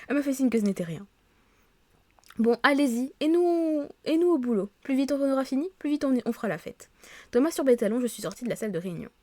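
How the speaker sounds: lively read-aloud of story dialogue; reading game dialogue aloud. Acted. Office colleagues agreeing on the park for welcome drinks, animated read-aloud. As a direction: read the characters' lines clearly, a little animated.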